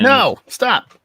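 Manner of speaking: high laughing protest. Real, not acted. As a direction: beg them to stop, laughing.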